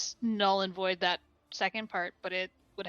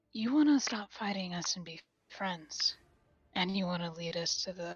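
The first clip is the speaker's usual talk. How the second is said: whispering, quieter; 5 dB quieter than usual. A player's character leans closer to a goblin and whispers to it. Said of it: "closer and whisper".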